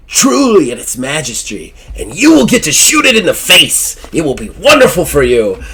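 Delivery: slow, swelling salesman voice rising high on killing; grand showman pitch. Acted. Zazelworth pitches the beast hunt to Jeffrey, slow swelling showman. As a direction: sell the hunt like a carnival barker.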